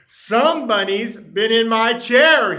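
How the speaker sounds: loud complaint to the empty room; hollering. Acted. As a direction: holler it across the house. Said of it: "he hollered".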